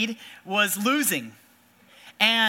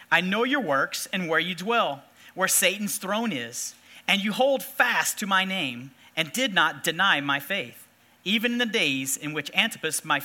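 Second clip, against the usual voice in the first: scripture reading; 3 semitones lower than usual. Acted. Preacher reading the verses to the congregation, measured. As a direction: read the verses with weight.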